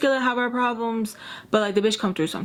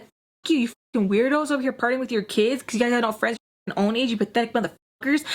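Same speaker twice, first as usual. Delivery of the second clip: slightly raised angry rant; retold really mad; 2 semitones higher than usual. Teen telling off partying parents, retold mad. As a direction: spit out insults, mildly acted. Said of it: "I was, like, really mad".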